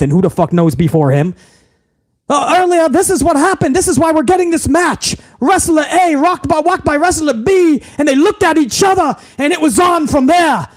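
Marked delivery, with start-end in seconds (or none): 2.3-10.7 hammed-up announcer recap, higher; mock announcer. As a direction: lay it on like a TV recap. Mocking a wrestling announcer's recap.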